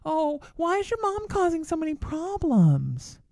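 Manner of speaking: grinning mock innocence. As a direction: play the innocent with a grin. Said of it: "kinda grin and say".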